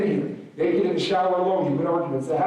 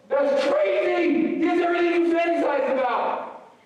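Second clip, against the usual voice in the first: incredulous; 14 semitones higher than usual. Acted. Disbelief at Phelps' depression.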